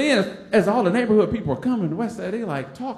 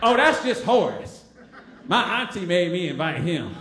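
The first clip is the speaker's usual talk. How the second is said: mock dismissive shout. Tracy unmasking him loudly.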